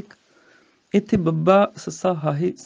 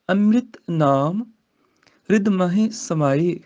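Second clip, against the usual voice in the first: slow scripture recitation; slower than usual. Shown as a demonstration. Teacher recites the verse for students, slowly. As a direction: chant the verse slowly, rising.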